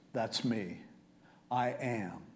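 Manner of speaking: low, soft, slow self-revelation; quiet reveal. Acted. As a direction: state it simply, dropped low and soft. Acted reveal by Jesus.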